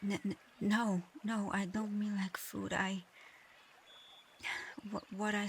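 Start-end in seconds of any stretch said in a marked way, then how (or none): 0.0-3.0 stammered, slightly louder hurried denial; flustered protest. Acted. Dragon reassuring a knight they aren't food, flustered. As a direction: backpedal quickly, tripping over the first word.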